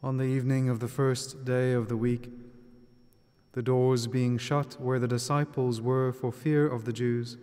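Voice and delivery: measured, solemn scripture reading; Gospel reading. Acted. Reads the Gospel aloud.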